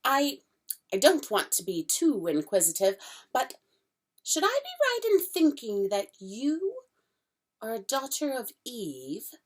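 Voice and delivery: a jittery faun asking shyly; fawn's voice, flustered and polite; nervous fawn. Acted. Fawn voice held.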